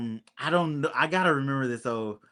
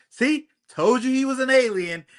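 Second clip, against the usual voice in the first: much higher, cocky told-you-so; smug gloat; 9 semitones higher, 4 dB louder than usual. Retold or imitated. Hal standing up after the explosion, gloating, high smug. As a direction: toss it off like a know-it-all hero.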